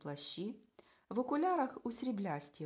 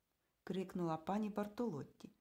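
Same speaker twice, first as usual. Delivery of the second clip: plain reading voice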